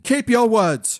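high angry shout. A narrator's reading. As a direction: bark it at the betrayer. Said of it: "shouted Niles".

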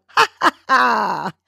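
slow ha ha ha. Shown as a demonstration. Host laughing along with listeners, slow ha ha ha. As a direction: draw the ha ha out gently. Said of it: "Hands out".

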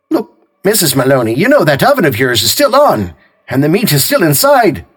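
a hint of a friendly sergeant; Sergeant Noonan. A narrator's reading.

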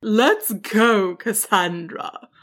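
lightly voiced kind dragon; kindly. A narrator's reading. Dragon gathers up the little sheep, kindly. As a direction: ease into a slow, kind invitation. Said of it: "the dragon said kindly".

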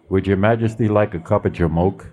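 put-on quick, lightly done Brooklyn accent; a hint of a Brooklyn cook. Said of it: "asked the king in a Brooklyn accent".

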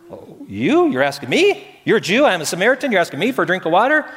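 high, disbelieving questions; incredulous surprise. Retold or imitated. Samaritan woman answering Jesus at the well, incredulous. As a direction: play her shocked he asks her.

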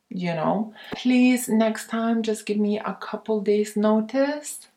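friendly, light and easy refusal; soft gentle tone. Shown as a demonstration. Woman gently declining the guy's last-minute invite, soft tone. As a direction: turn him down sweetly, no edge. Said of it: "in a soft, gentle tone".

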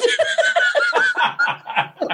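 high shrieking laugh. Real, not acted. Big laugh.

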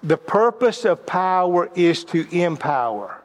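slow emphatic repeat. Shown as a demonstration. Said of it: "one of those life-changing principles".

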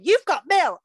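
high, bright announcing voice; imitating AOL alert. Podcaster imitating the AOL computer voice, high alert chime.

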